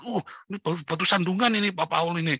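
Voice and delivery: lightly imitated shocked listener; Bu Sarma.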